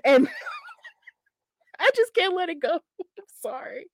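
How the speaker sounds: laughing through the words, ending in a breathless near-sob of laughter; giggling helplessly as you apologize; cracking up mid-sentence; real laughter. Real, not acted. Laughing at her own impression.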